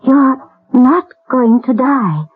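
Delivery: slow and firm, a gentle promise; slow tender vow. Acted. Mother promising the dying boy, slow tender resolve. Vows boy won't die.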